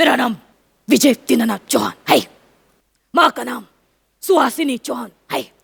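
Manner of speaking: deep bass, film-star style voice. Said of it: "Amitabh बच्चनच्या अ, आवाजात try करा, बेसच्या आवाजात. ... असा खर्जातला".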